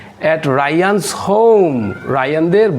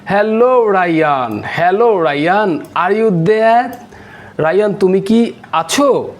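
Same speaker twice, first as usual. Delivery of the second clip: lightly acted raised-voice hello to a friend; mild calling out; 3 semitones higher than usual. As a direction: call out for a friend, without really shouting. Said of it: "loudly, উচ্চ স্বরে".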